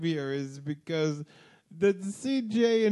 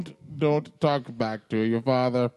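hammed-up sitcom father telling off his son; mock-stern TV dad impression; Bill Cosby; 3 semitones lower than usual. Scolding Theo for talking back, mock-stern sitcom dad. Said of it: "You're gonna give old Cosby a hernia".

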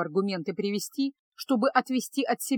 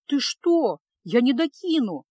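протестуя; 2 semitones higher, 3 dB louder, slower than usual. Acted. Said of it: "запротестовала девушка".

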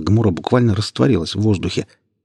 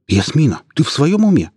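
sudden high alarmed question; shocked; 8 semitones higher, 4 dB louder than usual. Acted. Ilya, stunned, questions Yasmina's sanity in high alarm. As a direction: blurt it out in disbelief.

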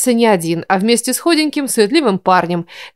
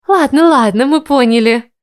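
cutting in; 4 semitones higher, 4 dB louder than usual. A narrator's reading. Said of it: "перебила Дарла".

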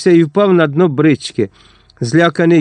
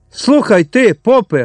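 lightly raised, scornful innkeeper; innkeeper talking down; 6 semitones higher, slower than usual. A narrator's reading. Innkeeper scolding the priest, mild scorn. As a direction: sneer at the priest a bit higher. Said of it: "говорив корчмар".

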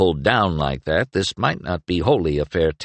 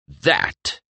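different voice; 3 semitones higher than usual. A narrator's reading. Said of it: "in an entirely different voice".

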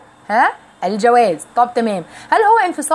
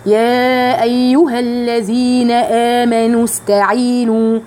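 slow chanted verse, long vowels dropped; slow Quranic chant; tajweed recitation; much slower than usual. Shown as a demonstration. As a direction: recite slowly, joining the words. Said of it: "فهقول إيه؟".

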